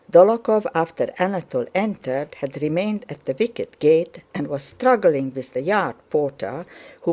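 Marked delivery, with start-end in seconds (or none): none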